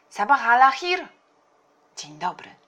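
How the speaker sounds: high, loud Arabic greeting; called-out greeting. A narrator's reading. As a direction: hail someone loudly in Arabic. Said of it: "zawołał po arabsku wuj". (głośne, wysokie powitanie po arabsku)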